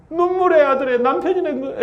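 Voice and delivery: high, breaking into a laugh mid-line; laughing at own slip. Real, not acted. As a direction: laugh at the misspoken word "남편이". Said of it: "에이, 아니". (말실수에 웃음이 터지는 높은 목소리)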